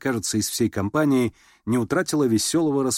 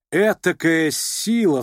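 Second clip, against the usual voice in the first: higher, louder, slow admiring cry; sudden exclamation; 7 semitones higher, 5 dB louder, much slower than usual. A narrator's reading. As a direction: burst out in awe. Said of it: "вскричала вдруг Аделаида".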